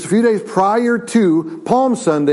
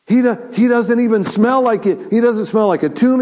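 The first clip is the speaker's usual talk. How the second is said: amazed; 5 semitones higher than usual. Acted. Amazed friends embrace Lazarus.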